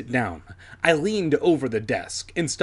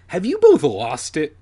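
scoffing shout; 3 semitones higher, 7 dB louder than usual. A narrator's reading. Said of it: "he cried".

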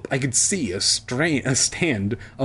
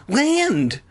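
high, drawn-out cry; hammed-up high holler; excited shout; 11 semitones higher, 3 dB louder than usual. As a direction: shout it out like a lookout. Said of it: "Sheena shouted".

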